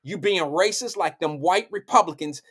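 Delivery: drawn-out mock scolding; slow the opening command, tongue in cheek; sarcastic. Telling Harlem's black folks off, sarcastically. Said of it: "I'm being sarcastic".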